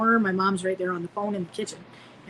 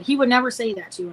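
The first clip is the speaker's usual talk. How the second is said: mildly indignant, louder retort; retold anger; 3 semitones higher, 6 dB louder, faster than usual. Grandma disbelieves grandchild, mildly mad. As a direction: imitate a grandmother's cross denial, lightly. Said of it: "she got real mad at me".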